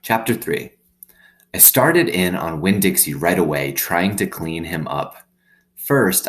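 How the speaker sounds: lively read-aloud storytelling; story narration. Acted. Teacher reading a novel to students, lively narration. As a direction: read the chapter aloud to the class, expressive.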